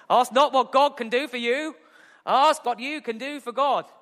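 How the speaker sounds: hammed-up Boston oratory, second try; JFK impression. Preacher redoing the Kennedy quote after fumbling it. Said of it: "It's not a bad J F K".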